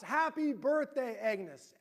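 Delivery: mild mock group shout, drawn out; erupting cheer. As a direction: retell the crowd bursting out, lightly. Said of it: "everyone just erupts".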